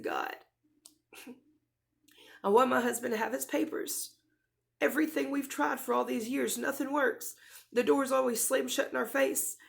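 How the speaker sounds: retold prayer, voice rising with emotion; tearful pleading. Wife begging God for husband's papers, tearfully pleading. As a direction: plead with God, close to tears. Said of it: "I broke down crying".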